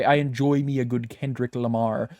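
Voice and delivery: lightly voiced gruff sea captain; Mister Krabs-like voice. Co-host hears friend sound like Mister Krabs, lightly voiced. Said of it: "Thank you, Mister Krabs".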